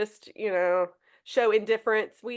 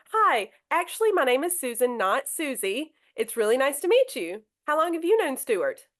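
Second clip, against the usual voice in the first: higher, friendly correction of the name Susan; kind correction; 3 semitones higher than usual. Shown as a demonstration. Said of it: "so just real kind".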